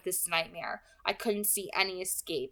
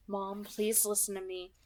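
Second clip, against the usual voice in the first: pleading; 3 dB quieter than usual. Acted. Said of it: "I pleaded".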